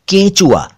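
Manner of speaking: "केंचुआ" as KEYN-chu-a; correct close vowel. Shown as a demonstration. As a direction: say "केंचुआ" high, with a narrow nasal e. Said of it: "केंचुआ नहीं".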